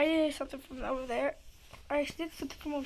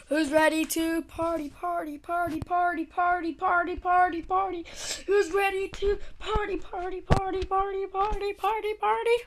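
rowdy party animal; 4 semitones higher, 3 dB louder than usual. Pretend. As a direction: chant building higher and louder. Repeating party chant, rising.

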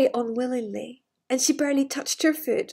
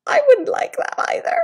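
laughing; 10 semitones higher, 4 dB louder than usual. Real, not acted. Reader laughs.

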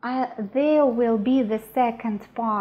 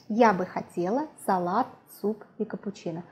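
natural-speed repeat; faster than usual. Shown as a demonstration. Teacher repeating her order for today, quick and connected. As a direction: run "салат, суп и капучино" together as one order.

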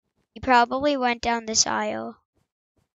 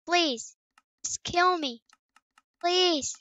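soft mock pleading; 3 semitones higher, 7 dB quieter, slower than usual. Begging the monster quietly.

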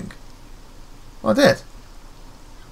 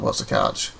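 whispered echo; 6 dB quieter than usual. Real, not acted. Player echoes the line under breath.

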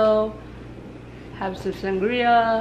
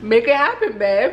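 playful demand; 2 semitones higher than usual. Real, not acted.

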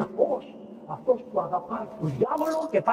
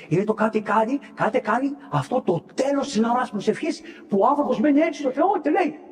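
normal talking voice

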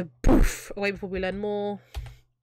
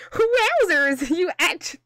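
higher, slow, stretched-out character voice; 8 semitones higher, 4 dB louder, much slower than usual. Acted. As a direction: drag the wowzers out in a higher put-on voice. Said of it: "I need to do voices for Twitch".

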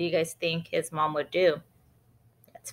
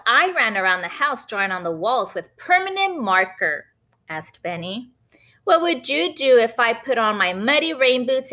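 Benny's voice; 5 semitones higher than usual. Acted. Boy Benny testing his mom, cheeky and high. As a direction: push her with a teasing question.

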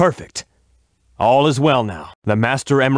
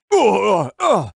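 effort grunt; 8 semitones higher than usual. Acted. Grunts in a confrontation.

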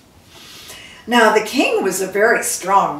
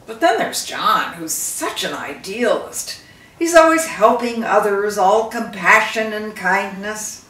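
a hint of an ailing king, somewhat louder; lightly voiced old king; 5 dB louder than usual. Dying king confiding in his jeweler, lightly voiced. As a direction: talk it through like a weary, proud father.

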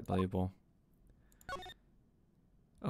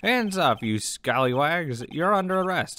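hammed-up cop calling out; mock police arrest; 6 semitones higher, 6 dB louder than usual. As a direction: play at making a dramatic arrest.

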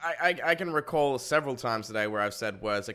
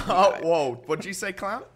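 laughing callout; 7 semitones higher, 9 dB louder than usual. Real, not acted. Catching a friend's rude remark.

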